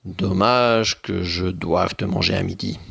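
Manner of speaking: regretful ogre. Acted. Ogre regrets eating her.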